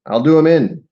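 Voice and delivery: a touch of a complaining soldier in a poem; whining. Acted. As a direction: raise it into a whiny threat. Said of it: "he whined".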